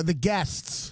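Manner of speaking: "Guests" ending in an audible T-S; final T sounded. Shown as a demonstration. Comic clarifying a film title to co-hosts, "Guests" with its T sounded. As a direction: say "Guests" with the closing T clearly there. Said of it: "With a T".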